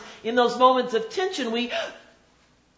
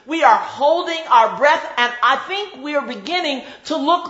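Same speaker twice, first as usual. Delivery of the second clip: building sermon; 2 semitones higher, 4 dB louder than usual. Acted. Preacher builds intensity.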